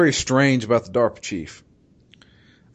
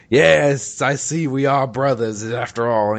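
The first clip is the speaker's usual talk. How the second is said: Liquid Snake impression; 2 semitones higher, 3 dB louder, slower than usual. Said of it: "That's my Liquid Snake impression".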